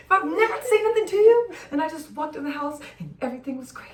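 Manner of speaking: breathy whisper through laughter; whisper-laugh the dream; giggling half whisper. Real, not acted. Laughing fantasy.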